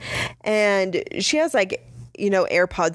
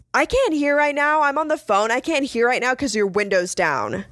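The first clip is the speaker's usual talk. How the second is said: imitated rude passenger; 6 semitones higher than usual. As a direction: mimic an entitled passenger whining up high.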